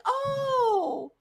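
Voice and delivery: high, sugary mock delight; Hera's high, sugary mock delight to Zeus; fake-sweet Hera. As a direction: play along with venom underneath. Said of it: "she's like".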